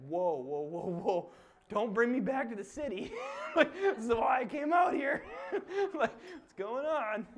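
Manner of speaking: loud, high laughing shout; laughing mock protest. Teasing the city folks with a loud laughing whoa. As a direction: holler it while cracking up.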